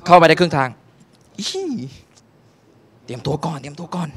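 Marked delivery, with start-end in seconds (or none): 1.4-1.7 very high, soft startled yelp; mock startled yelp; startled squeak. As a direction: jump in surprise. Startled at cinema door.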